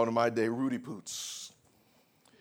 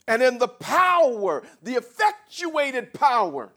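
loud, high proclamation of scripture; ringing pulpit shout on a slow build; full-force preaching; 9 semitones higher, 12 dB louder than usual. Acted. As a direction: preach the verse out, stretching the big words.

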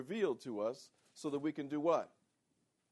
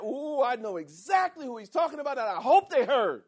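mock churchgoer gloating; 9 semitones higher, 11 dB louder than usual. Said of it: "How many of you have left this church saying".

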